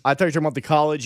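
surprised. Real, not acted. Realizes misunderstanding.

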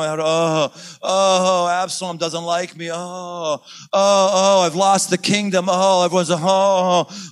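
moaning David wallowing over his losses, hammed-up whine; whiny pity party. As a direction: ham up a king feeling sorry for himself. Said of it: "endless pity party for himself".

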